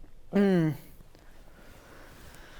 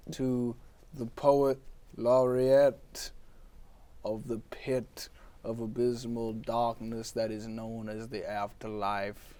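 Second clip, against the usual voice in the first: lower, softer, slow solemn title; grave grandiosity; 3 semitones lower, 4 dB quieter, slower than usual. Acted. Poe solemnly naming himself for the host. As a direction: intone it like a dark epitaph.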